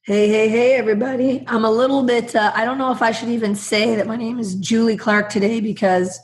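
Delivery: hoarse, husky voice from a cold; smoker's rasp. Real, not acted. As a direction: speak through a sore, raspy throat. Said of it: "my alias with my smoky".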